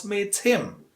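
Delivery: "him" with a clear h; strong form of HIM. Shown as a demonstration. Teacher showing what to avoid, "him" in full. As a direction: pronounce the full h in "him", separate from "meet".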